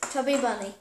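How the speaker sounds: "Chubby bunny" through a mouthful of marshmallows; cheeks stuffed full. Real, not acted.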